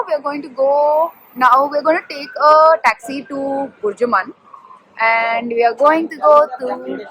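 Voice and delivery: put-on a light Arabic accent on English. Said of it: "I don't know why I'm speaking in this Arabic accent".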